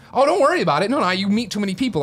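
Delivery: high-pitched, hurried-to-forgive fan voice; retold reassurance. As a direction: wave off an apology in a high voice. Voicing forgiving fans at meet-and-greet.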